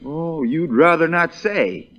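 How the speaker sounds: slow, drawn-out teasing repeat; mocking echo. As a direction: echo his words back to needle him. Lincoln mocks witness's words.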